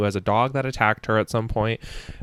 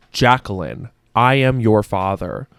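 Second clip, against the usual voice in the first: Darth Vader; 4 semitones lower than usual. Retold or imitated. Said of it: "literally Darth Vader".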